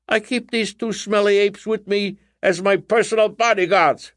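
high, loud hammy stage witch; huffy witch voice. A narrator's reading.

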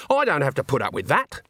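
high-pitched, indignant comeback; angry retort. A narrator's reading. Agnes refusing to put up with Andre, angry retort. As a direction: stand up to him with rising anger. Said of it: "metamorphose into anger".

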